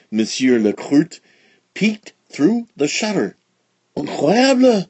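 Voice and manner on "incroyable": exclaimed. A narrator's reading. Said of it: "he exclaimed".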